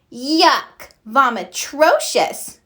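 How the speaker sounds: mock-disgusted squeal, drawn out slowly. A narrator's reading. Muffy squealing at the turkey costume, disgusted. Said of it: "squealed Muffy".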